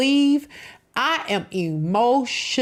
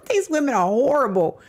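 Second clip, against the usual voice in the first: outraged; 7 semitones higher than usual. Real, not acted. Outraged reaction to clip.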